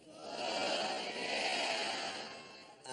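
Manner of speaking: low, stretched fuck yeah trailing up; slow, low mock yes with a lifted ending; drawn-out yes. Shown as a demonstration. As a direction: drag the yeah out lazily. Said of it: "let's try it one time".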